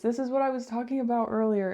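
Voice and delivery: hollow, echoey small room sound; echoing room. Real, not acted. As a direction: speak in a closed echoing room. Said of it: "really echoey in here 'cause I shut the door".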